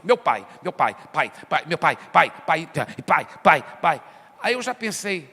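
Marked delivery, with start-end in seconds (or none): 0.0-4.0 mock repetitive prayer. Preacher imitating a believer repeating pai, low drone. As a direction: lower droning pai pai pai. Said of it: "ou senão ele fala assim".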